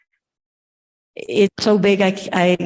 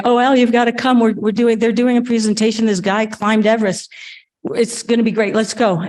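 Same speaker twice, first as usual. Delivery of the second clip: excited dad; 3 semitones higher than usual. Retold or imitated. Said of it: "And often he'd say".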